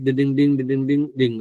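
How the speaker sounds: quick sing-song "ding-ding" chime noise; imitated dinging. Host marks the first target on the chart, imitated dinging. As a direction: voice a little bell as the target is marked.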